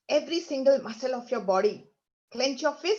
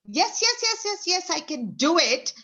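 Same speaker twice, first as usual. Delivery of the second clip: a lighter echo of the triumphant yeses, higher; mild powerful tone; 4 semitones higher than usual. Shown as a demonstration. Teacher recalls the strong affirmation, a touch excited. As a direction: chant yes upbeat but easy. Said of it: "in that beautiful tone".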